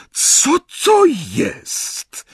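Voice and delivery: slow, high-pitched startled demand; startled question. A narrator's reading. Bellatrix demands to know about the sword, startled. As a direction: draw out an alarmed question, high.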